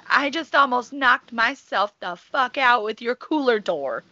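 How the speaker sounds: incredulous retelling. Retold or imitated. Retelling her reply to clerk.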